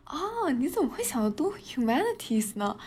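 teasing imitation of a nosy officer; the customs officer. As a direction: ham up a puzzled officer who can't believe it, laughing through it. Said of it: "他说".

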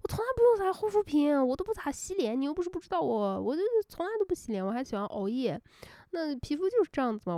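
a high, breezy mother boasting about her skin; airy, high-pitched mum bragging; mother's voice. Retold or imitated. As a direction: lightly voice the ex's mother, high and casual. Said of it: "然后他说".

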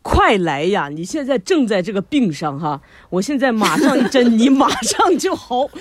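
loud, eager master's sales pitch, slow at the end; mimicking the acupuncture master. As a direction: ham up the master promising a quick cure. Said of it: "大师就说". (模仿针灸大师招揽的语气)

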